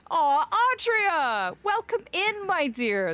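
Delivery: delighted greeting. Real, not acted. Greeting a chat member.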